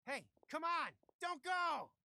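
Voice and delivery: loud shout after her, don't let her leave; calling out. Acted. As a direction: yell after her to stop. Thug calling after fleeing woman.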